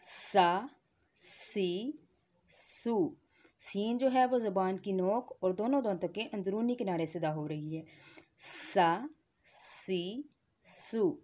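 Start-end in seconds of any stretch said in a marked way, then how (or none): 0.0-3.2 सा सी सू gently, tongue tip on the inner edge of the upper teeth; सा सी सू said lightly, no hiss; very soft se. Shown as a demonstration. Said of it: "इसको और नरमी से अदा करेंगे". 8.4-11.2 सा सी सू without any hiss; seen without whistle. Shown as a demonstration. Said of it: "इसमें सीटी की आवाज़ हम नहीं निकालेंगे".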